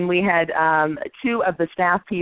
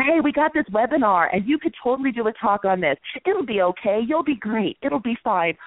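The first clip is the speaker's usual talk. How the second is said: reassuring; 4 semitones higher than usual. Retold or imitated. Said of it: "they said that I always".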